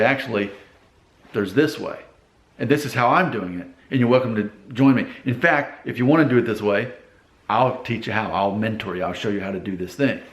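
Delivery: low, even, helpful leader voice; calm assertive. Acted. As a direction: offer guidance calmly, without pushing. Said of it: "We're looking for calm assertive people".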